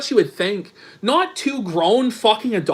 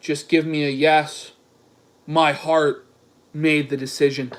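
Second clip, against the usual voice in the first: low, measured mock-suitor voice; mock-solemn romantic plea; Dick; 6 semitones lower than usual. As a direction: read it low, pausing between phrases. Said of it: "Dick goes".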